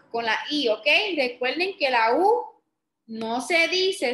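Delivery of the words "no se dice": slow, firm "no se dice"; emphatic rule. Shown as a demonstration. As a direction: spell out "no se dice" slowly. Teacher stresses the silent U rule.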